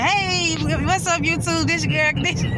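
high, loud, squealing hey what's up; mock YouTuber intro. Showing off to the camera in front of her brother: hammed-up high loud YouTuber greeting. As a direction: belt out a hammed-up channel greeting. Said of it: "I don't be care who see my, like".

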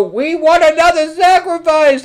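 very high, loud beastie chant; beasties' voice. Retold or imitated. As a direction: demand it like a mob of little monsters. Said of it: "and they go".

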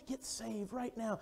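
hushed slow urging; soft whisper-like plea. Retold or imitated. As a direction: coax them gently and slowly. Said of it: "he been whispering".

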